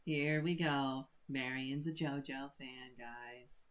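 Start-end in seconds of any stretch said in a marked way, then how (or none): 1.3-3.6 talking while chewing; words round a bite of food; mouth full. Real, not acted. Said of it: "I was chewing".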